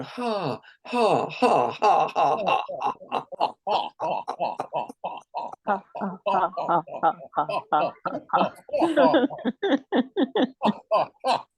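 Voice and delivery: steady run of forced laughing ha's; rhythmic ha ha. Shown as a demonstration. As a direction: chant ha ha as a laughter exercise. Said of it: "a bit faster, maybe a bit louder".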